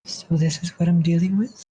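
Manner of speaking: booming otherworldly creature voice; dopey cartoon bellow. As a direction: bellow it like a dumb giant. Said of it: "you hear a deep voice just reverberating".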